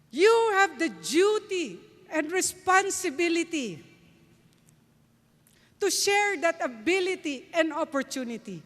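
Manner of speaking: high, loud Texan preacher imitation; Texan accent Zig Ziglar. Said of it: "in his Texan accent".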